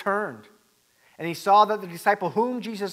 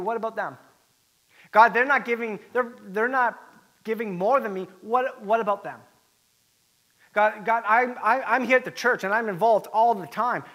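indignant whine to God, pitched up at the start; hammed-up grievance, in louder bursts with stammered restarts; mock complaint; 4 dB louder than usual. Churchgoer comparing himself to others before God, mock-indignant.

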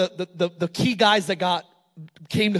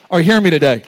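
preacher's call-out; 4 semitones lower, 8 dB louder, faster than usual. Real, not acted. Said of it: "calling out to congregation".

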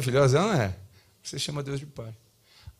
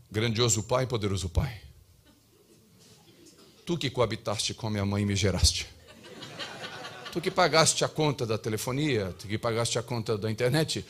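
lightly put-on lofty address, pitched lower; mock solemn prayer; 5 semitones lower than usual. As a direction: parody a child praying formally to Dad. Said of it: "a gente muda o tom de voz pra falar com Deus". (imitação leve de oração solene e cerimoniosa)

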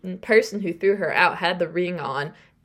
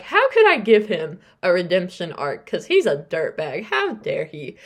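louder at first, then easing; retold indignation; 4 dB louder than usual. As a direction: re-enact exasperated outrage, lightly. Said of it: "I got so mad at myself".

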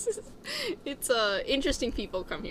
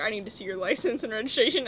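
brisk police officer demand; stern traffic cop asking for papers; faster than usual. Retold or imitated. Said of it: "a cop pulls someone over and it's like".

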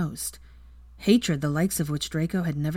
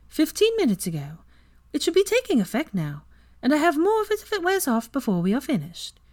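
higher, lighter female voice; 10 semitones higher than usual. Acted. Luna explains calmly.

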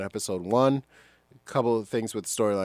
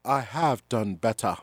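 slow, half-hearted impression of a noble Jedi; lightly voiced pure-hearted hero, drawn out; Obi-Wan Kenobi; 2 semitones higher, slower than usual. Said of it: "Obi-Wan would say something like".

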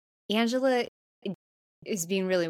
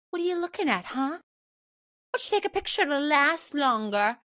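high-pitched, needling put-on challenge; mock confrontational taunt; 7 semitones higher, faster than usual. Girl taunts the cabinmate staring at her, mock confrontational. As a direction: challenge the starer in a raised pitch.

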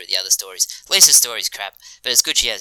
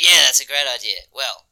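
rising, louder and higher toward the end; excited Hank quote; 4 semitones higher, 4 dB louder than usual. Retold or imitated. Fan quoting Hank listing hammock shops, growing excitement ending in a laugh. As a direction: gets more excited with each hammock shop. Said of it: "he's like".

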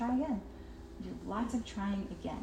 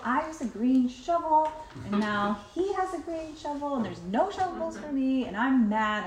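put-on whiny child complaining, rising louder; mock kid upset over a shovel; 4 semitones higher, 3 dB louder than usual. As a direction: play the wronged preschooler.

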